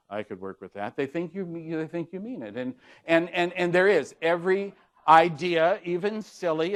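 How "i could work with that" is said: lowered voice. Shown as a demonstration. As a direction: lower and softer, convincing. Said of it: "is to lower your voice".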